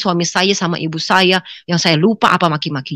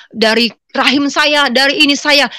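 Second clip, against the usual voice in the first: higher, emphatic acted scolding; mother's tirade; 7 semitones higher than usual. Mother berating her daughter, mild tirade. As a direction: lightly mimic a mother laying down her claim.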